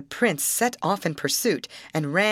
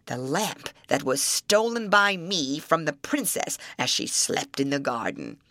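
troll voice; 3 semitones lower than usual. Acted. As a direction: growl it out like an old troll.

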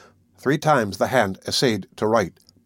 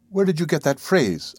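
demanding; 5 semitones higher than usual. Acted. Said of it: "I demanded".

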